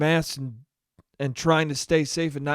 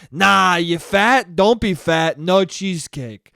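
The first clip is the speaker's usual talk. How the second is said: mock Cuomo; 4 dB louder, slower than usual. Cuomo voice continues.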